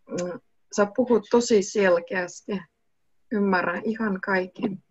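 ordinary delivery

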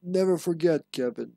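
in-game document read aloud; reading a memo aloud. Acted. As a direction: read out the letter with an instructive lilt.

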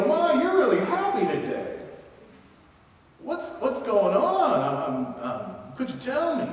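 cheery curious greeting. Pretend. Cheery greeting to a happy stranger.

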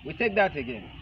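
ordinary talk

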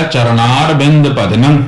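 slow, stopping after ਭਜਨੰ; pause on ਭਜਨੰ. Shown as a demonstration. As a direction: rest on ਭਜਨੰ. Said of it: "ਭਜਨੰ ਤੇ ਵਿਸ਼ਰਾਮ ਦੇਣਾ ਹੈ".

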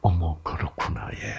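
breathy hushed "oh my, I see"; gently nod along in a near whisper; soft sympathetic agreeing. Retold or imitated. Preacher imitating women soothing a speaker, hushed and soft. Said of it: "여자들 뭐라 그래요?".

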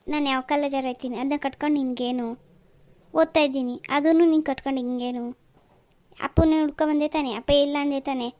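curt, snapping retort; annoyed girl snapping at the visiting suitor; angry. Acted. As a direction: rude girl brushing off a nosy suitor. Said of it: "ಯಾಕೆ ಇಷ್ಟೊಂದು ಸಿಟ್ಟಾಗಿ ಮಾತಾಡ್ತಿದ್ದೀರಾ?".

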